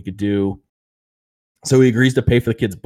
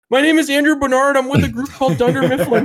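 high-pitched, louder mock holler with a laugh breaking in; imitated yelling; 4 dB louder than usual. Andy floating in the lake, calling out, imitated yell. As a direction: call out like someone stranded far off. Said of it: "and, like, yelling".

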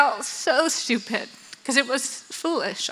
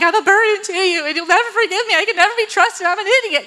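high, hammed-up self-pitying wail; imitating a bawling apology; mock tearful confession; 8 semitones higher, faster than usual. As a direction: let it all spill out as if crying. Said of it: "it's all spilling out".

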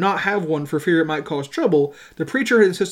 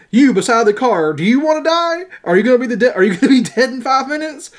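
loud, higher confrontational questioning; storyteller acting a pressing, raised threat; hammering on; 6 semitones higher, 6 dB louder than usual. A narrator's reading. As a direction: challenge each man in turn, forcefully. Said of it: "Horton hammered on".

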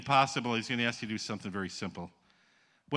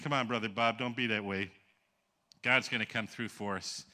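reassuring; 3 semitones lower, 3 dB quieter than usual. Retold or imitated. Brother reassures the wailing preacher.

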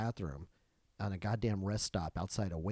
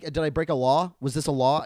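loud, rising, defiant questions; retold indignation; 4 semitones higher, 10 dB louder than usual. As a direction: challenge him on the law. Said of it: "He got mad".

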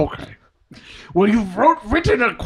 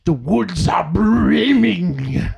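grand rhythmic bard. Pretend. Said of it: "It's titled".

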